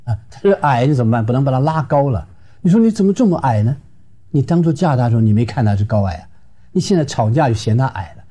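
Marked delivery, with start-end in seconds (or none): 2.6-3.8 mock scolding wife. Wife mocking her husband's height, raised scolding voice. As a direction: needle him about his height.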